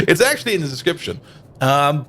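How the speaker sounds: normal talking voice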